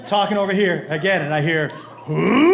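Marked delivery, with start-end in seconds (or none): 2.1-2.5 rising loud "ooh" of someone throwing up; imitated retching. Comic imitating the drunk woman being sick, mock retch. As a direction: mimic a loud, swooping heave. Imitates the sound he heard of vomiting.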